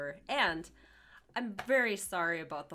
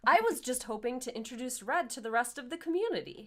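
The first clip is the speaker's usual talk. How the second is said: quick, higher, mildly defensive; a touch of flustered politeness, pitched up and quick; lightly voiced placating husband; 4 semitones higher, faster than usual. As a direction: explain yourself a bit hastily. Acting Joseph placating Mary.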